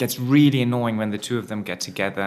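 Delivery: ordinary talk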